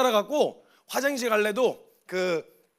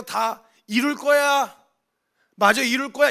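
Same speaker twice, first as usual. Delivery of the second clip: slow, deliberate, louder; wrong version, future tense; 3 semitones higher, 6 dB louder, slower than usual. Shown as a demonstration. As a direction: stretch the future tense slowly out. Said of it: "이렇게 얘기 안 하셨어요".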